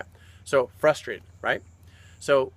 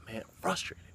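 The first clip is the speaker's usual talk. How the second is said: sag into a defeated groan; groaning frustration; 4 semitones higher, 10 dB quieter than usual. Retold or imitated. Coach recalls his failed run, groaning frustrated.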